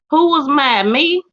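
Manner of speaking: a laugh, then a high mock-innocent who; laughing denial. Real, not acted. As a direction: play innocent through a chuckle. Playfully denying being mad.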